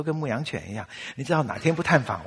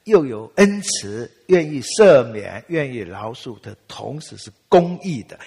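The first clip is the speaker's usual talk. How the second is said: loud, slow emphatic sermon; forceful preaching; 7 dB louder, slower than usual. Acted. Preacher to the congregation, slow and forceful. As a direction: drive home God's justice.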